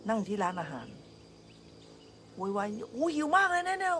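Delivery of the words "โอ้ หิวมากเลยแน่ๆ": high, slow, whining complaint; mock whiny fuss. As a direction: whine that you're starving. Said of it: "แบบโวยวาย". (ล้อเลียนเสียงโวยวายว่าหิว แหลมสูงและช้า)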